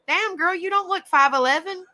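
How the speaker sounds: high-pitched, playful disbelief; teasing astonished rise; retold surprise. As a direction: act out being taken aback. Retelling surprise at her height.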